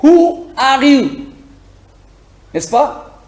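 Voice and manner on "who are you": slow questioning. Shown as a demonstration. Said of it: "une autre question que nous utilisons".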